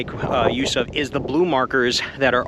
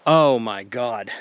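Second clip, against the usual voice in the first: winded after a steep descent; shaking with effort; slower than usual. Real, not acted. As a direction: legs trembling, catching breath. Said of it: "My legs are shaking right now".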